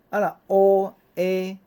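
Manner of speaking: 乌A drawn out high and loud before merging into 话; teacher stretching 乌A; exaggerated slow 乌A glide; slow blend. Shown as a demonstration. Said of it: "夹做伙呢".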